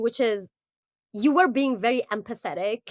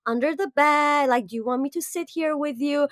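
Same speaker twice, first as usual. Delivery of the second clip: higher, lightly voiced comforting parent; reassuring parent; 5 semitones higher than usual. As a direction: coax a scared child gently. Acted parent comforting a scared child.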